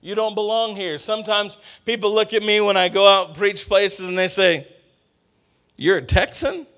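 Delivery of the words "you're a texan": mock doubtful query, rising at the end; doubting question. People question the visiting preacher's origins, mock doubtful question. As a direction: imitate a sceptical listener's question.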